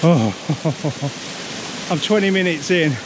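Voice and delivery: winded, talking mid-climb; panting between words; out of breath. Real, not acted. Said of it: "this is killing me".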